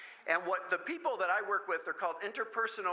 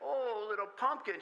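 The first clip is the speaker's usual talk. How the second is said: slower, tender coo; comforting pitch; 3 semitones higher than usual. Shown as a demonstration. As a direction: find the pitch that calms her. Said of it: "get that right pitch of".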